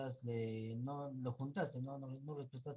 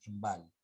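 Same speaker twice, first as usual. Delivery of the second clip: "Val" louder, as the misplaced stressed syllable; acento mal puesto en VAL; 2 semitones lower, 5 dB louder than usual. Retold or imitated. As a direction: stress wrongly pushed onto "Val". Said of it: "levantar la voz en". (acento equivocado en «Val»)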